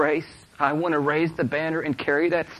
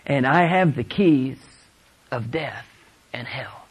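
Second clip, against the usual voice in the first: measured quotation; slower than usual. Retold or imitated. Scripture quote, first take.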